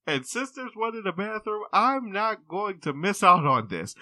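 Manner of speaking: high brazen granny voice, laughing; old lady. Retold or imitated. Patient arguing with the clinic worker, high granny voice. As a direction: push your case shamelessly.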